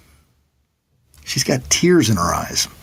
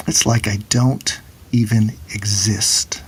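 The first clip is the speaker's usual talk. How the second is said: hushed, slow whisper of a mother's hurt; retold whisper; 4 semitones lower, slower than usual. Mother whispering her despair to her son, slow and hushed. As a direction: breathe it out slowly, barely voiced.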